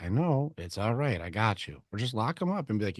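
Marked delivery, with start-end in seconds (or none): 0.0-1.8 softer, settling someone down; gentle mock comfort; calm reassurance. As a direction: soothe them like a friend who's pinned. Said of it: "You're like".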